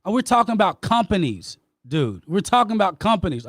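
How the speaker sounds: frustrated, rising voice as he defends himself. Real, not acted. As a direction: push back hard, voice climbing. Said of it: "raising my voice with you".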